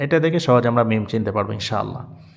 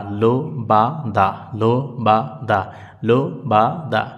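syllable drill. Shown as a demonstration. Teacher repeats syllable drill.

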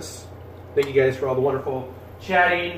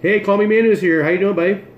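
excited greeting; 7 semitones higher, 4 dB louder than usual. Real, not acted.

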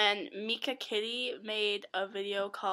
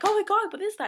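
higher, louder mock-startled outburst; alarmed reaction; 11 semitones higher, 6 dB louder, faster than usual. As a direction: act out a startled freak-out. Acting out her alarmed reaction.

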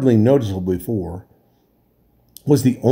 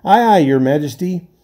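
higher, hearty crew answer; sailors' reply; 6 semitones higher, 3 dB louder than usual. A narrator's reading. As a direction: answer smartly like deckhands. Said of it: "said the sailors".

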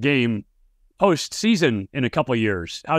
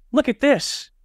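much higher pitched, astonished; trainer in disbelief; 13 semitones higher, slower than usual. Retold or imitated. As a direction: show him the thing, pitch leaping high. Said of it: "he opens it up and he goes".

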